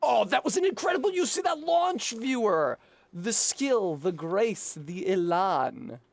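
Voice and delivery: high, exaggerated mock announcer. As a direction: gush like a fawning commentator. Mock commentary on a launch.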